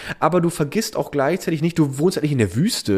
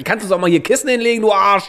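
mock cranky neighbor; 4 semitones higher, 3 dB louder than usual.

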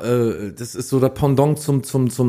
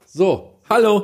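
digital echo; 8 semitones higher, slower than usual. Real, not acted. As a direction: voice with heavy echo, hall. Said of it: "ich schmeiß jetzt hier mal den Echo an". (mit Echo-Effekt)

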